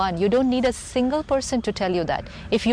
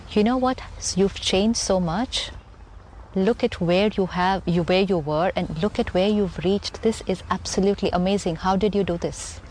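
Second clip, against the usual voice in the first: light encouraging praise. Retold or imitated. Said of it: "instead of saying".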